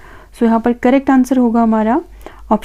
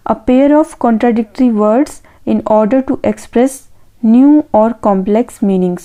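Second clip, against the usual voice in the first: each word read out slowly and evenly; slow dictation; much slower than usual. Acted. Teacher reading an answer option to students, slow dictation.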